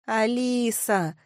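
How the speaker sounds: slow, drawn-out name; calling to wake. Acted. Narrator shakes snoring friend, calling her name. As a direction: stretch the name to rouse a sleeper.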